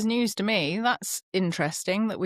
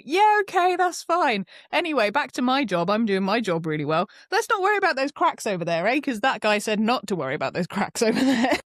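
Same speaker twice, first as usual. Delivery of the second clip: dismissive; 2 semitones higher than usual. Retold or imitated. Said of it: "You'd just go".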